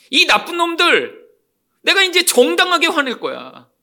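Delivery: high-pitched, drawn-out righteous outrage; indignant anger. Acted. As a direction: act out a man declaring his anger justified. Preacher voices Samson's indignant anger.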